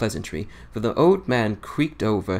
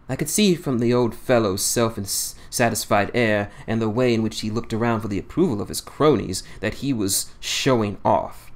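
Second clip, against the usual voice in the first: ordinary delivery, nothing marked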